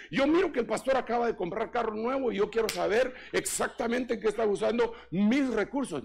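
loud, high, fast demanding rant; mock complaint. Preacher mimics a tither demanding accounts, loud indignant rant. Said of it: "empiezan a alegar".

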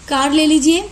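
कार said lightly, without extra force; just say कार evenly; unstressed कार. Shown as a demonstration. Teacher showing students कार spoken without stress. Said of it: "कार हम बिना stressed लगाए बोल रहे हैं".

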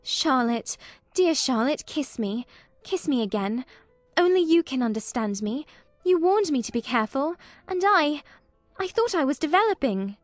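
put-on a distressed girl confessing to her cousin; tearful plea. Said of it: "Do not cry, dearest".

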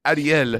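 Ariel with a tapped R, like "ah-dee-EL"; accented pronunciation. Real, not acted. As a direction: say Ariel as "ah-dee-EL", unbothered by teasing. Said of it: "That's how I talk".

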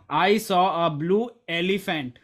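demonstrative stress on the final word "elephant". Shown as a demonstration. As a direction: land the emphasis on "elephant". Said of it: "Emphasis on elephant".

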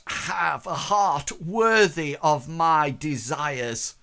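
offended noblewoman belittling her guest; haughty scolding. Acted. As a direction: look down on him and cut him apart. Lady berates tongue-tied suitor.

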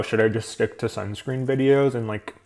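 talking with a mouth full of food; words round a bite of food. Real, not acted. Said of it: "Sorry for talking with my mouth full".

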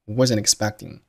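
wasn't expecting joined with no pause; wasn't expecting as one word, "wuzznexpecting"; linked words. Shown as a demonstration. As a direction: run the n of wasn't straight into expecting. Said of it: "wasn't和expecting发生了辅元连读".

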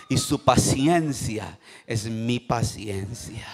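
slow, low, settling voice; calm patience. Shown as a demonstration. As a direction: ease down slowly into calm. Models patience after losing control.

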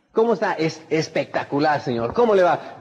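upbeat, lively hello; enthusiastic greeting. Shown as a demonstration. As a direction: greet them like you're glad to see them. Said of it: "Como que no parece estar muy entusiasmado". (saludo animado y con energía)

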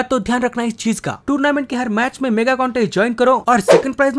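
energetic, emphatic promo delivery; sponsor ad read. Acted. Gamer pitching a fantasy cricket app to subscribers, ad read. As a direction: sell the app to your viewers.

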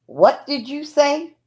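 father yelling back at grandma, loud and slow; angry yell. Retold or imitated. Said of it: "Daddy looked at her and yelled".

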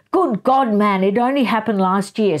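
a touch of scolding her husband; mild mock berating. Wife berating husband in the garden, mock angry. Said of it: "berating him".

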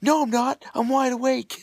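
wired and high-pitched; buzzing on coffee, voice up; too much caffeine. Real, not acted. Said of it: "I'm wired".

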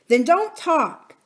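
high, loud, slow retort; exasperated nurse. A narrator's reading. Nurse to chattering princess as they run, exasperated retort. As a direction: shut the child down, loud and high.

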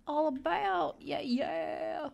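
high, goofy sing-out; odd playful high voice; weird silly voice. Pretend. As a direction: let it drift up into silliness. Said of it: "That was weird".

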